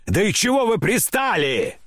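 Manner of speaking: high, exasperated outcry; crying out. A narrator's reading. Grandmother telling the company off, crying out in exasperation. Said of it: "закричала бабушка".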